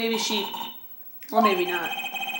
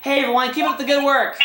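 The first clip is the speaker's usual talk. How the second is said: higher, eager greeting; chipper, pitched-up hail; cheery call-out; 6 semitones higher than usual. Acted. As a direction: call brightly to a crowd of coworkers. Character calls greeting to police workers.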